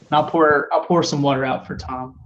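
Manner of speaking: attempted Jamaican accent, weakly done; a badly faked Jamaican accent. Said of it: "was that Jamaican or?".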